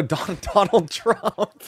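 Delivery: laughing through the name, drawn out; can't get it out for laughing. Real, not acted. Laughing while naming Trump.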